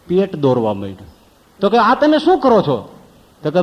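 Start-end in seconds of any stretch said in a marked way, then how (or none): 1.8-2.9 pained cry. Retold or imitated. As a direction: yelp at every prick. Man crying out again.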